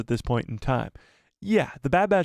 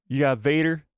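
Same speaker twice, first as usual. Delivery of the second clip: a hint of a drawling tow truck; accidental Tow Mater voice. Real, not acted. Streamer answering chat, a light Tow Mater twang. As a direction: slips into a light cartoon twang. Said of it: "why did I say it like that".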